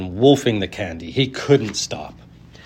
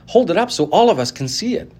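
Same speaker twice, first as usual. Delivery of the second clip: much higher, loud; calling out; 10 semitones higher, 4 dB louder than usual. A narrator's reading. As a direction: demand to see it. Crowd member calling out.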